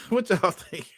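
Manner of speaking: a light take on D-batch; D-batch impression. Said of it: "Probably my D-batch".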